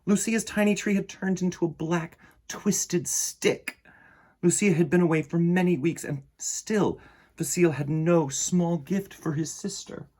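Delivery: put-on gentle read-aloud for children; storybook reading. A narrator's reading. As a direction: read it like bedtime story time. Reads picture book aloud.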